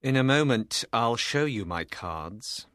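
low, grim character voice; Carton, grim. A narrator's reading. Lawyer promising to show his cards, grimly. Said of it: "Carton said grimly".

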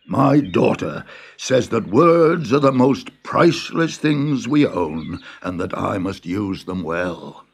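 a lightly voiced proud old farmer. The farmer tells the Tsar about his wise daughter. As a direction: let the farmer speak proudly, trailing off.

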